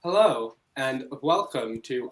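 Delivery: slow flat robot voice. Real, not acted. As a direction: stiff robotic delivery, slowed. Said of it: "why am I speaking like a robot?".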